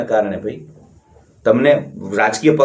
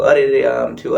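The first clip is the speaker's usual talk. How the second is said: lightly imitating a self-pitying complainer; mock whining. Mocking old people who whine to everyone, mock whining. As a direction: sigh it out like someone feeling sorry for themselves. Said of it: "તમે રોદણા રોશો તો".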